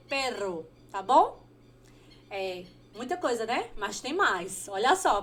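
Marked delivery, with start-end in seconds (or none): 0.1-0.7 perro with a rolled Spanish r, stress on the first syllable; Spanish pronunciation. Shown as a demonstration. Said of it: "cachorro em espanhol a gente fala". (perro com rr vibrante espanhol, tônica na primeira sílaba)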